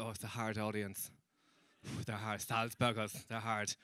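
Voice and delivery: low, hushed mock warning; ominous warning. Comedy friends warning him about the Salzburg audience, hushed. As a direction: drop the voice and sigh at the thought.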